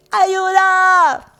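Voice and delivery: high, long-held shout for help; playful, stretched-out high cry; like little Santiaguito. Retold or imitated. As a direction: suddenly holler it out like a small boy. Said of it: "Como mi Santiaguito".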